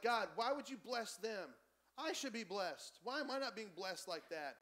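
lightly acted envy, slowing on the words; indignant complaint. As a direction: complain as if cheated of a blessing. Voicing envious people complaining to God.

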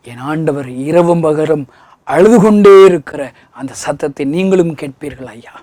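ordinary delivery

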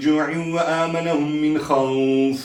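verses linked in one flowing level chant; Quran recitation. Shown as a demonstration. Quran teacher closing the lesson, chanted recitation. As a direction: chant on, long vowels held, settling at the close.

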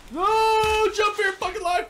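high, loud panicked yell; real panic, yelled at the screen; desperate shout. Real, not acted. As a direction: scream at the game to save you. Enemy about to fall.

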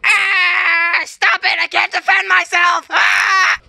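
high, crying out to stop; panicked pleading. Pretend. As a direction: beg like a hero losing the fight. Hero overpowered, begging.

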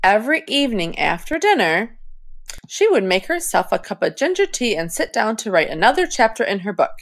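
fast, no pauses, running out of air; rushed, out of breath. Shown as a demonstration. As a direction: cram it all into one breath. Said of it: "I ran out of breath".

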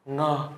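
"Ngờ" opening on a Vietnamese ng sound; Vietnamese-style ng. Shown as a demonstration. Teacher names the Korean final consonant, Vietnamese-style ng. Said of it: "như tiếng Việt nhá".

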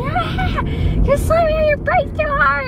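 high-pitched little bee complaining; mock-panicked tiny passenger voice; voicing the bee. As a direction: squeal the bee's complaint, high. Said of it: "He's like".

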